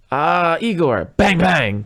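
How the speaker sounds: loud, slow mimed gunfire; mock gunshots.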